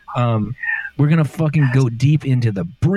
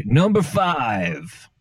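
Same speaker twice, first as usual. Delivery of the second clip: dramatic countdown; much slower than usual. Acted. Counting down the list.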